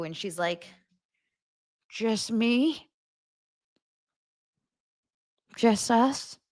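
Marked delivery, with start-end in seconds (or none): 1.9-6.4 higher, questioning mock-coy voice; imitating simpering wife. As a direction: play her coy and hopeful. Retold simpering reply by wife.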